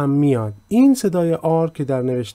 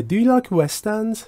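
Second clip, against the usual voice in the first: slow, higher question voice; raised question read; 9 semitones higher, much slower than usual. Shown as a demonstration. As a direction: read it slowly and up high. Teacher reads example slowly. (پرسش آهسته با صدای بالاتر)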